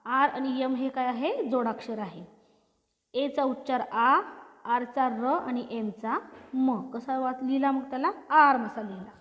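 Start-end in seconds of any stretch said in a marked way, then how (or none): 3.1-6.9 each letter's sound drawn out slowly, one by one. Shown as a demonstration. Teacher to pupils, slowly sounding out each letter. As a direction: spell the word into sounds, slowly for the class. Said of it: "तसंच पुढील जोडाक्षर आहे आर्म".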